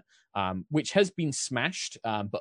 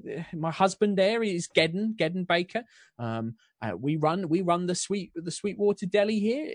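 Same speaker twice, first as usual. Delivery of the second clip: put-on higher, lightly English accent, chatty; lightly English baker; 8 semitones higher, 3 dB louder than usual. Baker Susan introduces herself to nobles, light English accent. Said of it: "I'm gonna lose all my accents".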